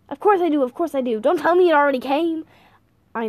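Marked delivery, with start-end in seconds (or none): 0.1-0.6 higher, louder eager reply; eager exclaiming. Acted. Old man eagerly repeats himself. 1.2-2.4 alarmed. Acted. Old man alarmed about package.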